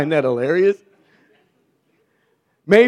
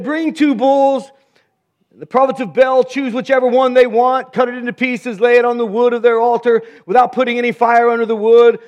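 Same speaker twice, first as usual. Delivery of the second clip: higher, bold challenge to the prophets; Elijah taunting; 5 semitones higher than usual. Acted. Preacher voicing Elijah daring the prophets of Baal, bold taunt. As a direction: fling the dare at them like a prophet.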